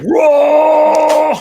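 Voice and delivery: loud, high hammed-up roar; imitating Arnold's roar at the Predator; mock roar. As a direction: let out a big movie-hero roar. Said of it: "It's like".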